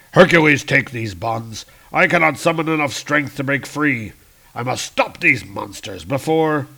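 loud strained hero; Hercules voice. Acted. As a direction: strain against the bonds.

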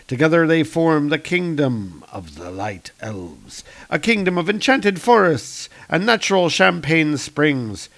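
lilting storybook narrator, stretched phrase endings; grand narration. A narrator's reading. Narrator introducing the kingdom of the light elves, grand narration. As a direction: read it as a sweeping fantasy prologue. Reads comic captions in storybook style.

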